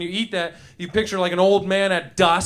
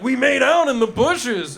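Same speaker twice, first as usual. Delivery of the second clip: lightly voiced, higher-pitched guy on the bag; barbecuing guy; 5 semitones higher, 4 dB louder than usual. Barbecuing guy on the bag to the eater, higher playful voice. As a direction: play the chip-bag guy reminiscing. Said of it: "there's a guy barbecuing".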